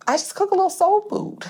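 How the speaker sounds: high whispered aside, self-deprecating; whispered, very high and humble. Retold or imitated. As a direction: breathe it out in a whisper.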